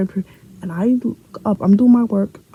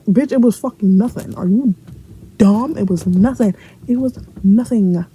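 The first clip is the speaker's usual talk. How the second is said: exasperated outburst; 3 semitones higher, 3 dB louder than usual. Retold or imitated. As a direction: insist as if fed up with the teacher. Exasperated comeback to insistent teacher.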